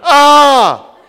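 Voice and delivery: loud hammed-up scream breaking into laughter; mock scream, laughing. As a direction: shriek like a man jumping the pew. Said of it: "They went".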